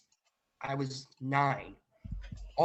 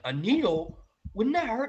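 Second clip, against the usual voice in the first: worried squeak; 8 semitones higher, 6 dB louder than usual. Retold or imitated. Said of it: "I'm like".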